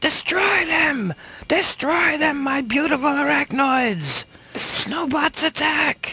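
tinny, very high villain shriek. Narrating a scene, voice the unseen speaker screaming from everywhere: tinny screaming voice. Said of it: "you hear the tinny voice screaming from everywhere".

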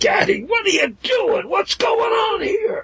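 very high, loud, shouted scream. As companions struggle with moving vines, he screams back up toward the window, screaming. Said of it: "he screams back up towards the window".

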